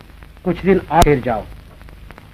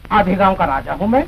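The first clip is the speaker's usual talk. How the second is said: ordinary delivery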